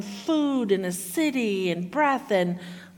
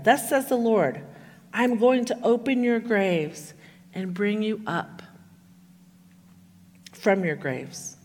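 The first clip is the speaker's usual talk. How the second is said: solemn scripture reading. Acted. Pastor reading Ezekiel to the congregation, solemn and measured. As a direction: read the prophecy with weight, letting key words land.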